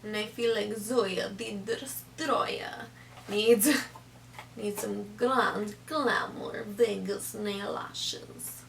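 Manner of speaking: shaky put-on Russian accent; slow, weak Russian accent. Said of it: "Clearly my Russian accent is not up to par".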